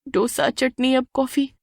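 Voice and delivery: tired muttered complaint; grumbling aside. Acted. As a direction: complain under your breath. Bride grumbling under breath.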